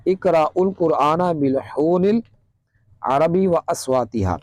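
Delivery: slow, measured Arabic recitation. Shown as a demonstration. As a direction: recite it slowly, drawing out the long vowels. Reciting Arabic hadith in lesson. (ٹھہر ٹھہر کر عربی قرأت)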